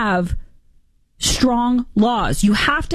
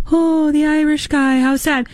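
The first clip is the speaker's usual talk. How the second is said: slow, sarcastic fake pity for the Irish guy; drawn-out, mocking "how sad"; mock sympathy; 4 semitones higher than usual. Mocking sympathy for deported man.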